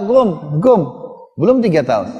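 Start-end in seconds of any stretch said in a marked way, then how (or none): 0.1-0.8 put-on toddler voice. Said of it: "setiap ketemu orang".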